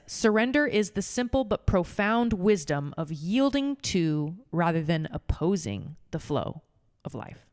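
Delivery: slow, measured quote reading. Shown as a demonstration. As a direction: read it like scripture. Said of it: "Eckhart says".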